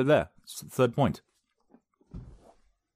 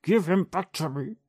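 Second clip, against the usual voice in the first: high, pleading mock yell, slowing at the end; half-hearted dramatic plea at a tablet; 9 semitones higher, 3 dB louder than usual. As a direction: beg the phone to give grandpa back. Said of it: "I just wanna yell at my phone".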